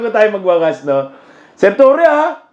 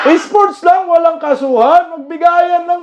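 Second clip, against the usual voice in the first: mocking quote; 5 semitones higher than usual. Mocking the challenger's words.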